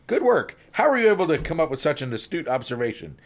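impressed policeman, starting high and loud; acted delighted amazement; beaming praise. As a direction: congratulate him with a smile in the voice. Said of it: "comes back with a beaming smile".

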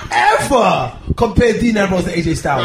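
slow, emphatic telling-off; mock outrage. Real, not acted. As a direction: scold a friend in mock outrage. Mock outrage at friend's wrestling comparison.

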